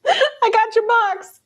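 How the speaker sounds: drawn-out imitation of the man; slow mock quote. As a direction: stretch "I got your box." out slowly, teasing.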